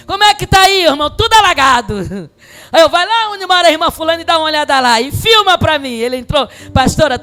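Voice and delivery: loud, high laughing storytelling; laughing excited retelling. Real, not acted. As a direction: tell it through laughter and excitement.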